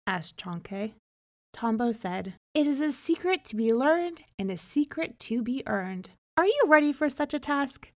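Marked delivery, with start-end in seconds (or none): 2.5-7.9 lightly voiced spirit, rising higher and faster into the question; a hint of a spirit challenging the hero; testing spirit. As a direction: spirit posing a riddle. Tombo sets the test.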